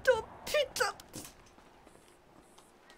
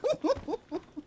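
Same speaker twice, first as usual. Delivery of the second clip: dry heaving; 3 semitones higher, 6 dB quieter than usual. Acted. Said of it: "Je vais vomir".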